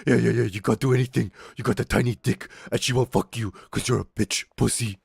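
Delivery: lightly put-on jeering voice; taunting classmate. Classmate goading the held-back captain, lightly imitated jeer. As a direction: imitate a cocky schoolboy goading someone.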